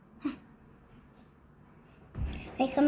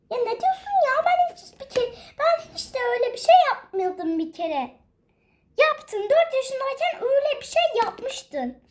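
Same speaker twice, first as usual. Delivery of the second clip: put-on high, protesting child voice; indignant little sister; 5 semitones higher than usual. Younger sister denying to grandpa, indignant. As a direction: protest indignantly, half laughing.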